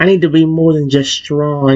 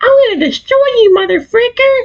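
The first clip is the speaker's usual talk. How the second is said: put-on very high, shrill, piercingly high annoying girl voice. Showing another voice option: annoying high-pitched voice. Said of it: "that annoying, more high-pitched".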